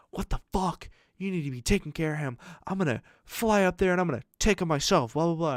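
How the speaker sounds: high, alarmed mock outrage; freaked-out aunt. Aunt freaking out over the video, high alarmed rant. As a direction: imitate the panicked aunt ranting. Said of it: "freaked out".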